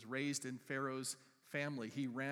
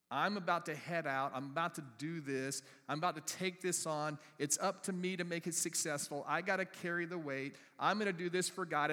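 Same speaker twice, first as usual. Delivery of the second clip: louder, higher self-reliant boast on "about"; mock self-reliant boast; 3 semitones higher, 4 dB louder than usual. Preacher mocking proud self-reliance, louder and higher. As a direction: puff up like someone carrying it all alone. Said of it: "It's wrong thinking".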